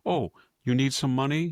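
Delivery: high mock pleading please; mock begging. Mocking Biden begging Iran, a mild mock plea. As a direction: beg in mock whine. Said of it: "he begged and begged".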